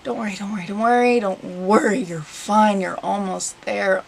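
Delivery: low, repeated reassurance to yourself; self-reassurance. Real, not acted. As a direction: talk yourself through it. Reassuring herself while cutting.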